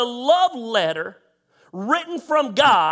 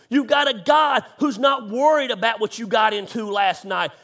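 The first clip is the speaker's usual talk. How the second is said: preaching shout. Real, not acted. Preaching to online viewers.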